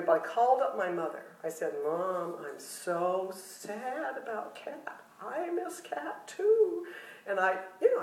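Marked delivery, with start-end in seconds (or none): 1.8-6.9 mock sad. Telling mother how sad.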